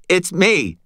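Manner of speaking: high-pitched, frantic shout; frantic call. A narrator's reading. Fitz calling to his boss while held, frantic. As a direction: call out in a panic. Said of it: "he called out frantically".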